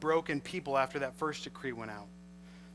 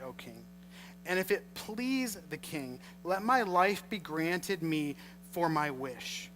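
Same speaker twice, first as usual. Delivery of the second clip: scripture reading. Acted. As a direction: read the verses with care. Reads scripture aloud.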